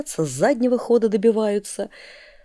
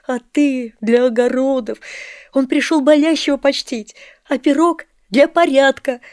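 put-on raised, higher childish reproach; child scolding; 4 semitones higher, 7 dB louder than usual. A narrator's reading. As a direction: scold her hotly like a hurt boy. Boy reproaching Sonechka. (мальчик упрекает сестру: громко и горячо)

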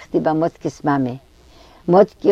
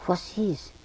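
hushed, frightened question; startled; 11 dB quieter than usual. A narrator's reading. Girl answers the sudden summons, softly startled. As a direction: ask it softly, as if taken aback. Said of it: "gefragt erschrocken".

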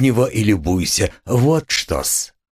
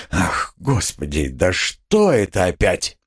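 frightened cry; 3 semitones lower than usual. Acted. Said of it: "вскрикнул в совершеннейшем испуге".

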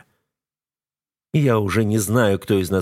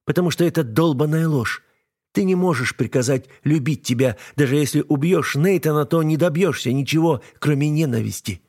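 young woman, voiced higher, bitter and defiant; higher-pitched wife hurling accusations; Alisa's voice; 6 semitones higher than usual. A narrator's reading. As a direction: read the wife's lines higher, with hurt scorn. Female character Alisa voiced.

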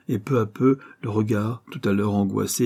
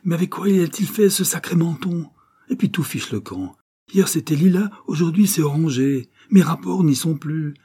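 grumbling; 8 semitones higher, 4 dB louder than usual. Acted. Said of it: "maugréant contre le menton".

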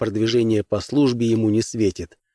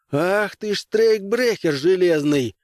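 slow, higher, mock-growled insult; 9 semitones higher, slower than usual. Grimes cursing the robot, slow mock growl. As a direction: spit the words out slowly. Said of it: "прорычал лейтенант".

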